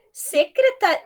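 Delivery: "secreta-" drawn out slowly, syllable by syllable; teacher slowing down "secreta-"; syllable demo. Shown as a demonstration. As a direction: break "secreta-" apart slowly for students. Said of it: "olha como faz".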